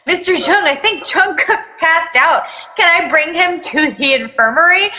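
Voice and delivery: Namjoon's voice. Acted. Namjoon's voice, raised pitch.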